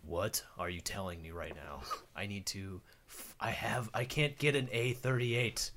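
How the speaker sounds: deadpan, understated Geralt; lightly voiced dry Geralt at the bank counter. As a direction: play it dry and unimpressed. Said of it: "the driest character ever".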